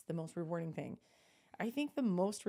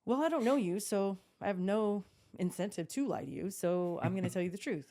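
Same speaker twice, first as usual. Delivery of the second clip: irritated retort; 3 semitones higher, 5 dB louder than usual. Retold or imitated. Retelling how she answered a nosy stranger, with raised irritated voice. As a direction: snap back a blunt answer, half-amused.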